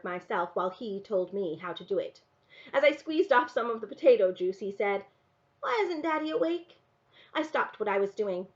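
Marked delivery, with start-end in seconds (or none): 5.6-6.8 put-on high, innocent child's voice; small boy asking, pitched well up; questioning little boy. A narrator's reading. Small boy asks about father.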